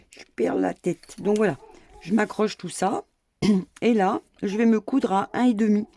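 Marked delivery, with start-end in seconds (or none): 0.1-1.2 "Je perds la tête" said aloud to the camera, louder. Real, not acted. A sewer tells her viewers she is losing it, louder. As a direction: announce it to the viewers, amused.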